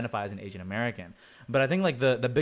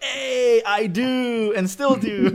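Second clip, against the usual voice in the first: mock sister; 11 semitones higher, 7 dB louder, much slower than usual. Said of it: "she's like".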